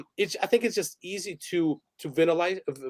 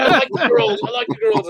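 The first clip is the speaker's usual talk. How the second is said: lightly voiced softie, higher and louder; soft doting man; 8 semitones higher, 6 dB louder than usual. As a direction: play a man who adores them, a little higher. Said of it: "he started getting very soft".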